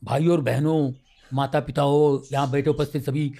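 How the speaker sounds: rote stage welcome. Shown as a demonstration. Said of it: "ये मैंने रट रट के".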